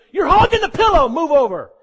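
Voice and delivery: high, loud whiny grumble that breaks into a laugh; playful whine about the pillow; complaining disciple. Acted. Disciple grumbling at sleeping Jesus, whiny and comic. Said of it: "a better testimony if John said".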